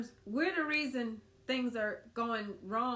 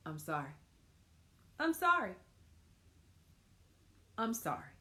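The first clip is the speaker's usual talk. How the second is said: soft apology demo; 2 semitones lower than usual. Shown as a demonstration.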